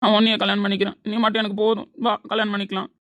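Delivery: heated, impulsive insistence; defiant declaration. Acted. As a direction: declare it with stubborn force. Defiantly agrees to marry friend.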